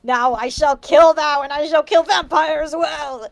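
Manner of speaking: slow, lightly menacing villain read; a hint of a sinister overlord; mock evil villain. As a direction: Darth Vader threatening Ebony, mock evil. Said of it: "said evilly in his raspy voice".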